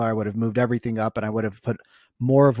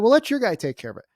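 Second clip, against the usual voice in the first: quoting the husband; 8 semitones higher, faster than usual. Retold or imitated. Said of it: "He's like".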